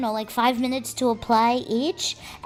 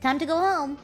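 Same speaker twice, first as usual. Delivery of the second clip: quick, higher-pitched acted sass; retold attitude; 4 semitones higher, faster than usual. Said aloud in front of the agent, retold with attitude. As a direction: toss it out with attitude. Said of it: "I said it with an attitude".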